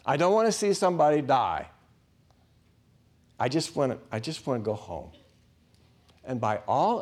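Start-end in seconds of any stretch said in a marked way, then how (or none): 0.0-5.1 grumbling. Retold or imitated. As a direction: whine about having to go in. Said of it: "kinda grumbling the whole way".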